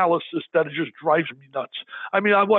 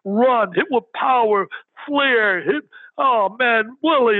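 put-on young fan defending Willie Mays, worked up; excited kid arguing; 4 semitones higher than usual. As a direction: pile on with fired-up disbelief. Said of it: "I would jump in and say".

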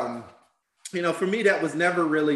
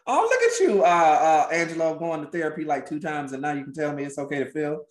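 teasing; 4 semitones higher, 3 dB louder than usual. Acted. Teasing friend, high mock voice.

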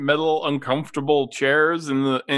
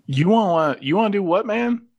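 incredulous; 6 semitones higher, 3 dB louder than usual. Acted. NPC clerk reacts incredulous.

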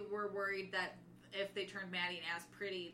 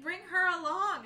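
higher, louder, slow order; mock firm order, louder; bossy Maddie; 9 semitones higher, 9 dB louder than usual. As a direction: command it. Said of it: "Maddie's like".

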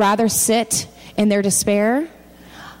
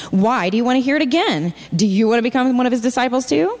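sarcastic; 3 semitones higher than usual. Acted. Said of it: "A little bit of sarcasm there".

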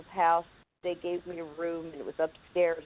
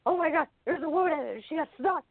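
put-on panicked kid; 10 semitones higher, 3 dB louder, faster than usual.

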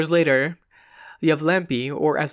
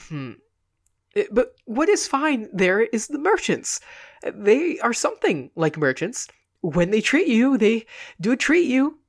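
comic friend reminiscing; 5 semitones higher than usual. Acted. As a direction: gossip cozily to cheer him. Comic man chats about Vyazma.

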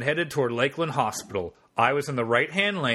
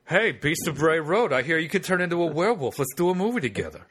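lightly voiced Mark Wahlberg, eager; a hint of Mark Wahlberg pitching; Mark Wahlberg impression; 3 semitones higher than usual. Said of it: "You just sounded kinda like, uh, Mark Wahlberg".

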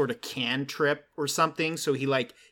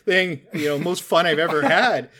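evil dragon; 2 semitones higher, 4 dB louder than usual. Retold or imitated. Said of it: "frantically rips off his scale laughing".

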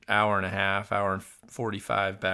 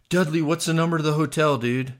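hurried worry; 5 semitones higher, 4 dB louder than usual. Retold or imitated. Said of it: "totally worried about it".

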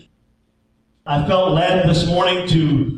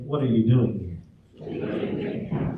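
say it to neighbor; 9 semitones lower, 8 dB quieter, slower than usual. Shown as a demonstration. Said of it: "Can you look at your neighbor and say".

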